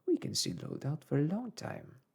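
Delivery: lightly voiced, calm philosophical servant. A narrator's reading. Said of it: "said Conseil philosophically".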